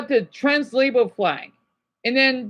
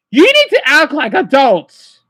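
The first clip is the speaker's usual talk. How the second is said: louder, slow, stern demand with need stressed; 7 dB louder than usual. Real, not acted. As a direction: hammer the need home, louder. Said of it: "I'm being dead serious".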